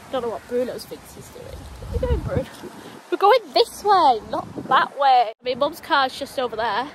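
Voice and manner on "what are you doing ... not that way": firm telling off. Real, not acted. Dog pulling wrong direction.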